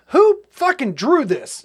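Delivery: incredulous. Real, not acted. Mocking the fake painting.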